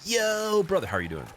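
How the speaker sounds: sudden stoner bro hello. Retold or imitated. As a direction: switch into the bro voice mid-chat. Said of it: "Be like".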